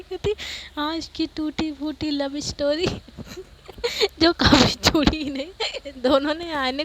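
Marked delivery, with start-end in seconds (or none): 0.8-5.9 laughing tease. Acted. Teasing friend's broken love story.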